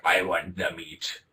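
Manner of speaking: slow, drawn-out put-on voice; slow mock request; put-on ordering voice. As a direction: stretch it out like an exaggerated order to a waiter. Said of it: "In that voice, that's what I say".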